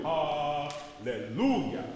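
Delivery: hallelujah, lu stressed. Shown as a demonstration. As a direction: lean into lu of hallelujah. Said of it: "What's the emphasis in the word hallelujah?".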